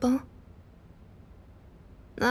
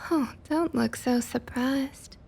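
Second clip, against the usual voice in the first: slow teasing; 4 semitones higher than usual. Acted. Teasing the captive.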